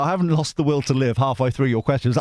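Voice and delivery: usual speaking voice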